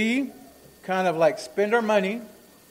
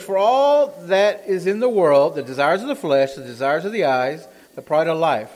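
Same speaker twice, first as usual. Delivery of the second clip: emphatic scripture reading; 5 dB louder than usual. Acted. Preacher reading the verse to the church, emphatic. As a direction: read the verse out forcefully to the church.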